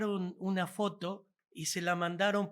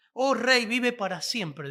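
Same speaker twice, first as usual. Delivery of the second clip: respectful address; 4 semitones higher, 5 dB louder than usual. Retold or imitated. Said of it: "No, no dijo así".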